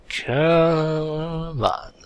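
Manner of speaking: hushed, pleading come on; whispered urging. Real, not acted. Player urging the game under breath, whispered. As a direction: breathe it out, willing it to work.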